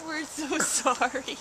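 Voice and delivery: calm the frightened birds gently; soothing scared chickens. Real, not acted.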